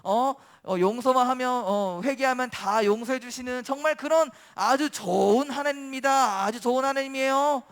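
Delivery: acted sarcastic praise of God. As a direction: pile on mock compliments. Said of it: "이러면서 막 되게 비꼬기 시작해요".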